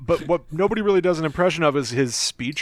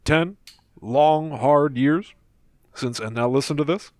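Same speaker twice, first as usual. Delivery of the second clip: Obama impression. Shown as a demonstration. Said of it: "Let's go to Barack Obama".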